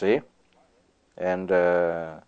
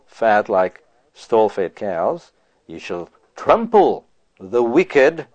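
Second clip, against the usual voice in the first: slow scripture reading; slower than usual. Acted. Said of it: "he says".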